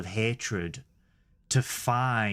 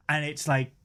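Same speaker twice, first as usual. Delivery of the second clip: usual speaking voice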